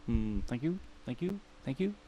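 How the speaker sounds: singer impression. Streamer closing his bad mock impression of a singer for chat. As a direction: mumble the thanks like a bad singer impression. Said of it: "a singer impersonation".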